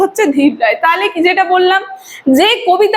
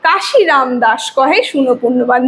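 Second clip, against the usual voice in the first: slow, lower poem reading; slow recitation; 3 semitones lower than usual. Shown as a demonstration. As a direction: draw out each beat slowly. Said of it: "এটাকে ধীর লয় বলা হয়". (ধীর লয়ে ধীরে আবৃত্তি)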